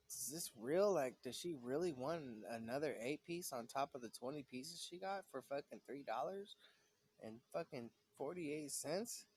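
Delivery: disbelieving, swooping questions; incredulous. Retold or imitated. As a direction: retell your stunned disbelief at the demand. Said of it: "I was just blown out".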